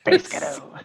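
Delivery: cheeky American-accented repeat. Shown as a demonstration. Co-host repeating it after being told stop, American accent. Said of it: "That's weird".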